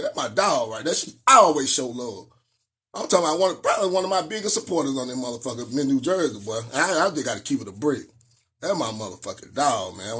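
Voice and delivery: heartfelt shoutout. Real, not acted. Thanking a loyal viewer, low and sincere.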